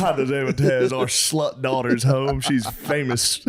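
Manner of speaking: slow, drawn-out announcement; milk it, breaking into laughter; father to wife. Acted. Father tells his wife about daughter, slow mock-dismay. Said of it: "He goes to his wife".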